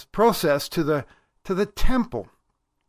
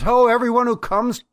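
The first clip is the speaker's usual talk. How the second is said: higher-pitched prophetic hail; lightly voiced prophetic summons; prophet's call; 6 semitones higher, 4 dB louder than usual. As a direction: call out as a prophet speaking for God. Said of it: "speaking on God's behalf".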